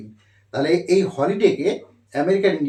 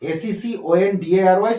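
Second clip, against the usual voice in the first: slow spelling out; 2 semitones higher, 4 dB louder, slower than usual. Shown as a demonstration. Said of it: "সেকেন্ডারি স্কুল".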